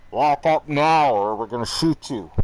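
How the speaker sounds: guard's shouted ultimatum. Retold or imitated. Guards ordering him back into lockup, shouted threat. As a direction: bellow it as a final warning. Acting guards' final warning.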